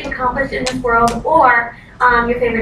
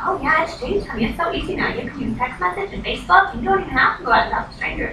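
higher, softer voice of an encouraging mentor; reassuring mentor; 4 semitones higher, 4 dB quieter than usual. Retold or imitated. Mentor telling nervous recruit it's easy now, reassuring. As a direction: lightly voice a mentor putting someone at ease.

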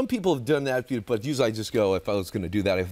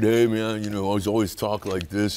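neighbor guy voice; 5 semitones lower than usual. Retold or imitated. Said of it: "your friend across the street".

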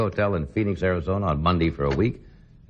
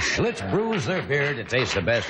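slow, upbeat beer ad read; ad announcer; 5 semitones higher, slower than usual. Shown as a demonstration. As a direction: sell it like a radio commercial. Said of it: "You can do this".

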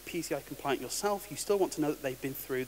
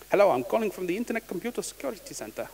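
hammy fake Indian accent, higher; bad Indian accent; 5 semitones higher than usual. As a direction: scam caller in a badly done Indian accent. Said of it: "In a really, really bad Indian accent".

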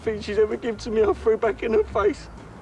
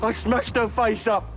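angry. Acted. Outburst confessing the attack.

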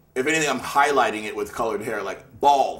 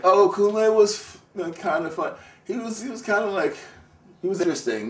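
higher-pitched, hesitant, diplomatic hedging; hedging acquaintance; 9 semitones higher than usual. Retold or imitated. People recalling him after his death, high hedging imitation. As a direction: imitate someone searching for a polite word.

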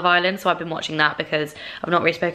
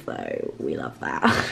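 a mock deep-voiced catchphrase; deep silly voice; 6 dB quieter, slower than usual. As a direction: drop way low and slow on it.

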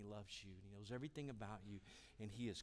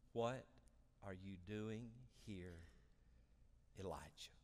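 slow questioning; 3 semitones lower, 4 dB quieter than usual. Acted. Reads God's slow question to Elijah.

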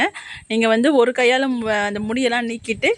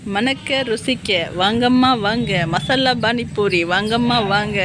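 singsong street hawker; much slower than usual. Retold or imitated. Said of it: "மருந்து போட்டுட்டு இருந்தவ கூவ ஆரம்பிச்சாருன்னு நினைக்காதீங்க".

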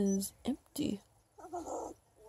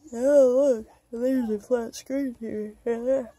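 yawning; 2 semitones higher, 5 dB louder than usual. Real, not acted. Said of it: "I just yawned again".

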